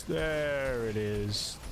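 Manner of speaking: very slow, dragged-out orc growl. Pretend. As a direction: drawl it out like a satisfied orc. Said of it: "The orc voice".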